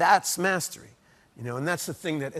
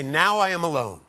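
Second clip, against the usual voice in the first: louder, firm declaration; clear, strong; 6 dB louder than usual. Retold or imitated. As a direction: announce it clearly to the whole house. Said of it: "Clear, strong".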